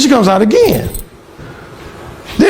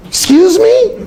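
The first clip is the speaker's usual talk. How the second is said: much higher, slow, indignant mock woman's voice; offended roommate; 11 semitones higher, slower than usual. Alan imitating the roommate's offended reply, high and slow. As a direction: draw it out, scandalised.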